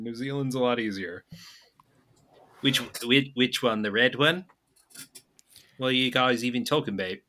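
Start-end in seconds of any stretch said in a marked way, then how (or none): 2.6-4.5 clipped New Zealand vowels; New Zealand accent. Shown as a demonstration. Friend showing an easier accent, New Zealand accent. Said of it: "I can do New Zealand". 5.8-7.2 New Zealand accent, puzzled question. Shown as a demonstration. Friend showing his accent, New Zealand accent. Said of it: "I can do New Zealand".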